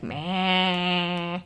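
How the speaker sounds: low, drawn-out bleating meow; long low "meh"; cat meow imitation. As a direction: imitate a grumpy cat's meow, stretched out. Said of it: "he'd just be like".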